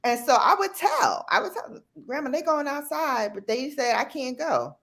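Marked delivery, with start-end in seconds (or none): 2.1-4.8 put-on child tattling. Tattling to grandma.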